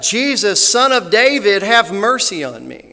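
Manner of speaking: full-voiced, high cry for mercy; loud retold shout, slowing at the end; yelling out. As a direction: shout it like a desperate plea over the crowd. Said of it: "he yelled out".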